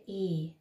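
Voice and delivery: ای said as a long open "eh" vowel; German ä sound. Shown as a demonstration.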